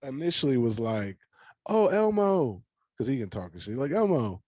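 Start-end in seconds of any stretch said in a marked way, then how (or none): 1.7-2.6 high excited squeal of delight; thrilled little kid voice; excited child. Retold or imitated. 3.9-4.4 put-on excited child.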